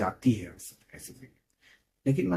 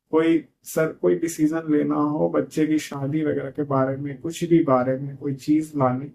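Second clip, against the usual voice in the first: retold tearful complaint; 4 semitones higher than usual. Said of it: "फिर वो रोना शुरू".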